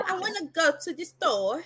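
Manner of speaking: lightly imitated British accent, checking if it's right; attempted British accent. Shown as a demonstration. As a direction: try British, lifting the end like a question. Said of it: "Is that how you say it?".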